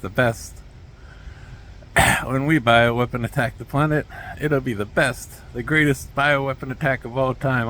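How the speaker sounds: Trump impression. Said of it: "I gotta work on my impressions".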